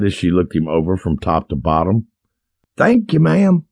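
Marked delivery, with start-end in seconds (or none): 2.8-3.7 camp it up like a coy lady; man faking a high woman's voice; high-pitched female imitation. A narrator's reading. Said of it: "in a high-pitched imitation of a female voice".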